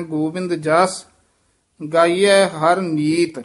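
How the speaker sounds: ਗੋਬਿੰਦ ਜਸ rising, a rest, then ਗਾਈਐ ਹਰ ਨੀਤ slowly; ਜਸ ਤੋਂ ਬਾਅਦ ਵਿਸਰਾਮ; pause after ਜਸ. Shown as a demonstration. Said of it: "ਇੱਥੇ ਵਿਸਰਾਮ ਲਾਉਣਾ ਹੈ".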